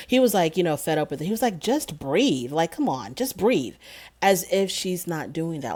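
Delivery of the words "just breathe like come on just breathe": mock fed-up coaching; lightly imitated exasperated boyfriend. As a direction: brush her off, impatient and dismissive. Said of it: "he was just so exasperated with her".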